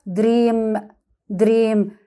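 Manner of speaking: دريم with one long "ee", the A unsaid; silent second vowel. Shown as a demonstration. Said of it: "الإيه دي مش هننطقها خالص".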